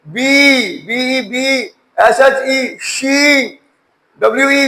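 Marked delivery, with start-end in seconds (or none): 0.1-1.6 "बी" repeated with a drawn-out ee; long E sound. Shown as a demonstration. Teacher giving long E examples, "बी" held long. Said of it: "ई long sound देगा". 2.8-3.5 "शी" as shee, vowel held; long E sound. Shown as a demonstration. Teacher giving a long E example, "शी" held long. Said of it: "ई long sound देगा".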